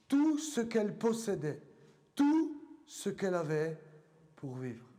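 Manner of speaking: measured Bible reading with long pauses between phrases; deliberate, weighty reading aloud to a congregation; solemn scripture reading. Acted. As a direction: read it out phrase by phrase, letting each one land.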